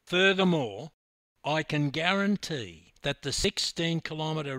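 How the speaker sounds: measured, weighty delivery with pauses; very deliberate and slow. Acted. Coach breaking bad news to his swimmer, deliberately slow. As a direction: spell it out deliberately, phrase by phrase. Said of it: "very deliberately and slowly".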